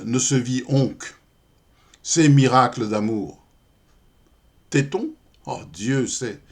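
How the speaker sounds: measured verse reading with pauses between lines; poem recitation. Acted. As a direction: recite it as verse, voicing the dialogue. (récitation de poème grivois, posée)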